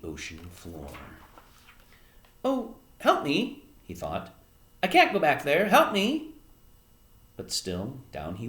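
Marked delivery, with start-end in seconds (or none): 2.5-3.7 high, drawn-out plea; small high voice, pleading; pleading for help. Acted. Edward sinking, pleads in thought. 4.8-6.3 high, louder desperate plea. Acted. Edward sinking, pleads in thought.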